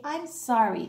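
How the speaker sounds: gentle model apology; sincere sorry. Shown as a demonstration. Teacher models an apology for the children, gently. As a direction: show them how to say sorry. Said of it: "It's so important ... to say".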